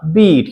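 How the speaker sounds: "बीट" with a long ee vowel. Shown as a demonstration. Teacher tells pupils the vowel is long, "बीट" with ee. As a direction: hold the ee in "बीट", not short i. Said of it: "लंबा ई की मात्रा".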